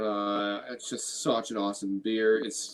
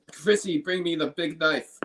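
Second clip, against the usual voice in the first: Mel Gibson impression; 5 semitones higher, 3 dB louder than usual. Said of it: "That's my Mel Gibson".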